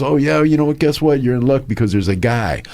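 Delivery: high, eager helpful friend, rushing at the end; eager buddy. Retold or imitated. Buddy eagerly telling his friend about a nearby garage, high and quick. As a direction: pitch the mechanic like great news. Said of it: "He goes".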